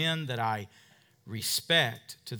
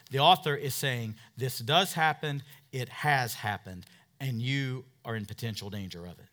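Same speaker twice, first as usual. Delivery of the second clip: usual speaking voice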